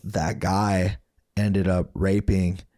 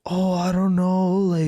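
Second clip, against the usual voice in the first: mock mom voice; 11 semitones higher, 3 dB louder than usual. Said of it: "she's like".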